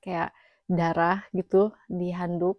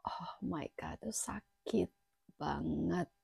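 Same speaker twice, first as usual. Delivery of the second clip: breathless whispered exclamation; whispered oh my God; 8 dB quieter, slower than usual. Real, not acted. Remembering the painful X-ray, breathless whisper.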